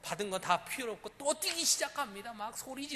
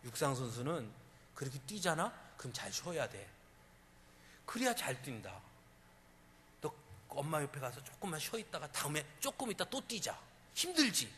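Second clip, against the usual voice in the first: put-on a lower, calmer voice coaxing the child; gentle bus driver; 6 semitones lower than usual. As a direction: soothe the boy into resting. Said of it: "기사 아저씨가 이렇게 말해요".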